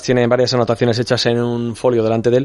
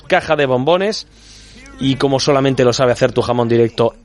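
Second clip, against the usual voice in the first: lively, measured sponsor read; radio ad read. Acted. Host pitching Mother's Day gift box to listeners, radio ad read. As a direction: sell it like a live radio host.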